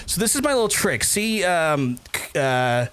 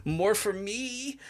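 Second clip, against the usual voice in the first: mock greedy villain; 2 semitones higher than usual. Greedy villain laugh at money.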